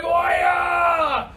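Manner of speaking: high, loud cheer; hype shout. Acted. Teacher hyping the kids before the chant, loud. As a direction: pump the kids up.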